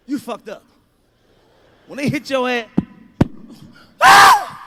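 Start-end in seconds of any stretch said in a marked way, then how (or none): 4.0-4.6 high piercing mock scream of a whooped child; kid's scream. Comic showing a child hit by his mother, mock scream. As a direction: shriek like a kid getting hit.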